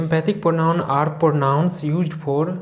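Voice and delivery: each word drawn out very slowly for note-taking; slow dictation. Shown as a demonstration. Teacher dictating a definition to students, very slow. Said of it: "English में इसको लिखते हैं".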